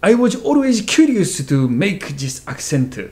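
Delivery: slow, heavily Korean-accented English; Korean ajoshi accent. Shown as a demonstration. Teacher reads student's introduction aloud, thick Korean ajoshi accent. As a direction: read it as a Korean uncle, added vowels and P for F. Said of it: "te lire ça avec l'ac-, un accent coréen d'Ajoshi".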